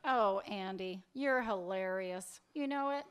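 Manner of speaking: drawn-out, mocking sarcasm; sarcastic. Woman brushing off her lover's declaration, sarcastic. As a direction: draw the words out in mock amusement. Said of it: "There's no reason to be sarcastic".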